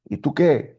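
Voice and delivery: half-shouted challenge, re-enacted; mock yell. Pastor turns on the man to test him, mock yell. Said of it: "le empiezo a gritar".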